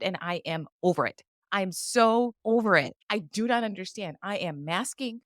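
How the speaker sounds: fed up, spacing out each complaint; real weary rant with deliberate stresses; exasperated rant. Real, not acted. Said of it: "to just hear you rant".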